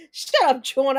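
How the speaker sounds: real playful yell; laughing shout. Real, not acted. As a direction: yell it at John, amused. Laughing at a chat teaser.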